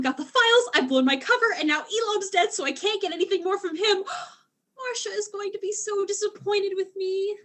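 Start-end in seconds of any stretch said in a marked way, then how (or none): 4.1-7.4 gasp, then teary and higher; on the edge of crying; close to tears. Acted. Alien near tears over failure.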